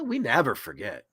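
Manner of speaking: breathy ominous whisper of the motto. Pretend. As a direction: hiss it like a secret threat. Anonymous-style warning, hacker motto.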